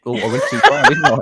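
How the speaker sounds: high, laughing admission; caught-out squeal of laughter; laughing guiltily. Real, not acted. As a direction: giggle through the confession. Laughing at own joke.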